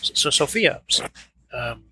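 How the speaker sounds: stammering, nervous shaky voice. Acted. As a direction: speak with a shaky stutter. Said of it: "and with a bit of a shaky voice".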